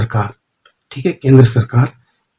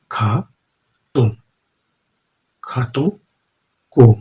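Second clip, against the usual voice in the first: very slow, stretched word, softer; drawn out while writing; 5 dB quieter, much slower than usual. Shown as a demonstration. Teacher writing the sign on the board, slow and drawn out. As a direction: let the word trail out as the pen moves.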